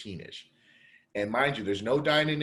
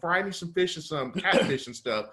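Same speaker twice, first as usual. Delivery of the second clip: outraged rant; 5 semitones higher than usual. Retold or imitated. Customer ranting at restaurant staff refusing his order, high indignant disbelief. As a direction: lay into them, pitch up and incredulous. Retold rant at closed kitchen.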